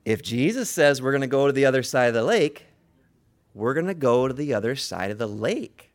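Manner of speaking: measured, emphatic restatement; slow it down and land each phrase. Real, not acted. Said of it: "Slow down".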